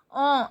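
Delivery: "ans" with the S left off; silent S in ans. Shown as a demonstration. French teacher explaining ans to learners, final S left silent. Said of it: "S is not pronounced".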